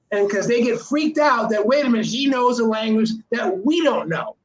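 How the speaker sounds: usual speaking voice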